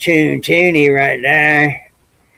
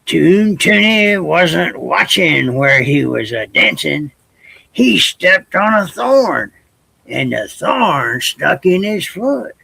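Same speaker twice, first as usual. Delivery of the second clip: put-on lively read-aloud storyteller voice for kids; story narration; 3 dB louder than usual. Librarian reading to children, lively storytelling. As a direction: tell it big and bright to little listeners. Reads folk tale to kids.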